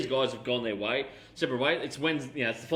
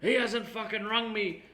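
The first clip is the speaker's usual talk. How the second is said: Connery voice; 8 semitones higher, slower than usual. Retold or imitated. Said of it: "He goes".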